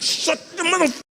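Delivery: put-on high, clipped kid's rebuke; high mock snap of a child; annoyed daughter. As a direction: play the cranky daughter. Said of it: "She's like".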